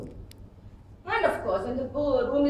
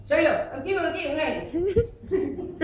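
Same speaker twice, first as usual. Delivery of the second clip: father-in-law speaking fast; 4 semitones higher, 3 dB louder than usual. Retold or imitated. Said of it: "used to speak very fast".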